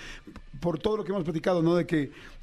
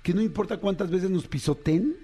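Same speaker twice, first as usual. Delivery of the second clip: sincere confession. Real, not acted. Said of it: "Voy a decir una cosa bien cabrona, pero real".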